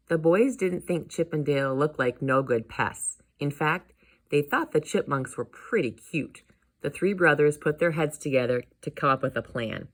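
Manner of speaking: put-on lively storybook reading for children; projected, friendly storytelling; story narration. A narrator's reading. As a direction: read it out animatedly to kids.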